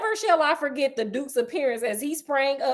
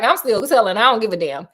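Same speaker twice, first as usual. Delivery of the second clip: defiant Sherlock; 3 semitones lower, 4 dB louder than usual. Retold or imitated. Sherlock voiced defiantly, loud.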